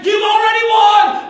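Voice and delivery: lightly voiced cheery church member; a hint of hollow praise; mocking pat on the back. Church members praising the newly baptized, mock cheer. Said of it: "pat them on the back saying".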